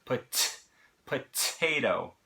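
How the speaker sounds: POTATO slowly, first T fully released, second flapped; normal first T. Shown as a demonstration. Teacher demonstrates the unflapped T, POTATO with strong first T. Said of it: "We pronounce that just like a normal T".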